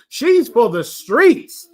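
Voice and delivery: slow, drawn-out street slang line; mild imitation of young men's street talk; young brothers' slang. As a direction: say it slowly, mimicking the young brothers. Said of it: "I don't speak like this, but I know the young brothers do".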